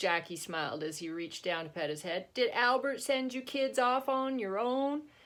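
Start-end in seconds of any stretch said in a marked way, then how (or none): 2.3-5.0 crappy, clumsy put-on southern drawl, pitched up. Reading a story aloud, Jackie asks the kids about Albert, in a crappy southern drawl. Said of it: "That's my crappy southern drawl accent".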